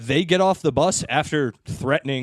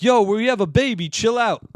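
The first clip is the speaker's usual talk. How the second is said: higher, louder retold protest; mock indignation; 7 semitones higher, 4 dB louder than usual. Men to woman who shoved them back, mock indignant. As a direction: lightly imitate a worked-up defender. Retold shoving quarrel over stroller.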